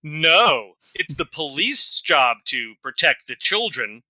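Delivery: slow, oily sarcastic purr; smarmy voice. Shown as a demonstration. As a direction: lay the sarcasm on thick, slowly. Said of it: "I will try to do a more smarmy voice".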